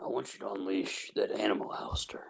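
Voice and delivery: hushed, urging whisper; sinister whisper. Acted. Urging Alistair to unleash the animal, whispered. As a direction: whisper it like a dark secret.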